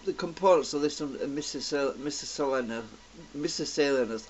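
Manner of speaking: lisping through missing teeth; gappy mouth, words slurring; missing front teeth. Real, not acted. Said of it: "'cause my teeth are missing".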